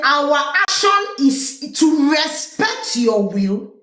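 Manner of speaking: very slow, solemn official delivery; stately, drawn-out speech read aloud; reading Chiroma's statement. Retold or imitated. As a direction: intone it like a formal proclamation. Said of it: "Isa Chiroma say".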